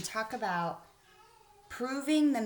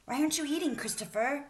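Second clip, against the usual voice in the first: curious child's question, voiced higher; asking; 5 semitones higher, faster than usual. Narrator voicing herself asking Christopher why. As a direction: ask it like a puzzled kid. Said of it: "I asked".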